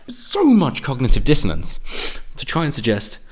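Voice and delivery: forceful breathy whisper; exasperated whisper. Real, not acted. Ranting about leftist contradictions, forceful whisper. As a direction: hiss it in disbelief.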